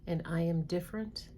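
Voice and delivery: slow, deliberate list reading with long pauses; read slowly. Shown as a demonstration. Therapist reading beliefs to viewers, slow and deliberate. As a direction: let each belief land, slowly. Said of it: "I'm gonna read them slowly".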